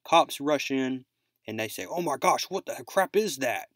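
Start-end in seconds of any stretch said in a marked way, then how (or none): 1.8-3.7 higher, lightly acted alarm; mild mock panic. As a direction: retell a startled cry without full fear. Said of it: "they start panicking here".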